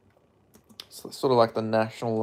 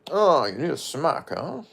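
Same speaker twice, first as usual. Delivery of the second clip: mock Scottish star with swooping pitch; lilting Scottish voice, jumping high at the end; Sean Connery; 4 semitones higher than usual. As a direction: put on a hammed-up Scottish accent. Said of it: "Cries in Sean Connery".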